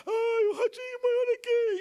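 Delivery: put-on high, wailing little girl; mock tearful kid voice; whiny crying daughter. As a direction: imitate the child sobbing over her rat. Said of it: "e chora".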